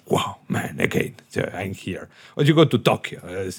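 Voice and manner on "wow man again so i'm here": hushed, amazed whisper; whispered awe. Retold or imitated. Arriving in New York, a whispered amazed wow. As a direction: breathe it out in wonder. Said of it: "New York is something like".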